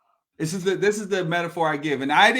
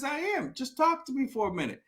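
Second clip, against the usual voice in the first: placating; 5 semitones higher, 7 dB quieter than usual. Retold or imitated. Therapist placating the trapped man.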